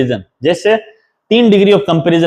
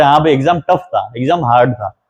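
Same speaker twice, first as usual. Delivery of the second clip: casual everyday tone; 4 semitones lower than usual. Shown as a demonstration. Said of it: "हम normal बात करें".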